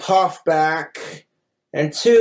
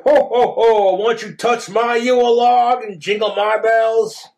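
higher, lightly hammed-up ho-ho-ho; Santa Claus; 4 semitones higher than usual. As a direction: play a jolly mock Santa.

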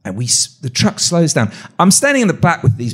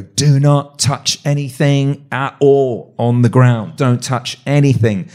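slow, deliberate, emphatic order; severe warning; slower than usual. Retold or imitated. Armed escort warns visitors on the base, severe and slow. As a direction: spell out a stern warning word by word. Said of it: "this really severe talk".

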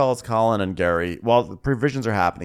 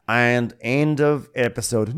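slow, drawn-out closing line; mock sign-off; 2 semitones higher, slower than usual. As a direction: announce the ending slowly. Mock announcing the episode's end.

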